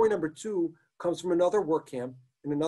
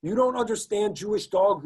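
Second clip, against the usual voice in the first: higher and louder roar; 6 semitones higher, 4 dB louder than usual. Acted. Taller SS man roaring at Schneeweiss, contemptuous. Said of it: "roared the taller of the two".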